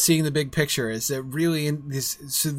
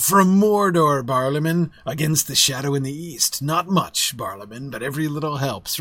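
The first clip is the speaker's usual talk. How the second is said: a lightly ominous Strider, slowed on Mordor; half-hearted doom-laden ranger warning; seriously ominous. Retold or imitated. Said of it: "seriously ominous".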